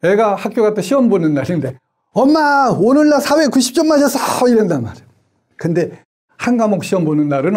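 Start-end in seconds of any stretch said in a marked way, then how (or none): 2.1-4.5 put-on much higher, bright proud kid boasting a score; a kid proudly telling mom about a test; excited child. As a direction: chirp it like a child showing off.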